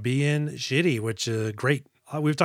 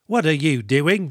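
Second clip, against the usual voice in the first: bad Ray Stevenson impression; 2 semitones higher, slower than usual. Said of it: "not a good impression of Ray Stevenson".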